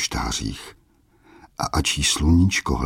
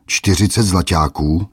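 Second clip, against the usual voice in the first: "Čtyřicet" stressed, squeaky rise on "zlaťáků"; mock the price in a squeal; mock-outraged squeak, louder; squeaked mockery; 3 semitones higher, 4 dB louder than usual. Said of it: "vypískl hromotluk".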